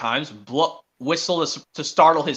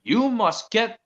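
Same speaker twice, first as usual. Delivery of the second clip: slow, put-on scolding boss voice; stern Topham Hatt; 3 semitones higher, slower than usual. Boy voicing the railway boss ordering Thomas, slow and stern. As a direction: order it slowly like a cross boss. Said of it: "said Sir Topham Hatt".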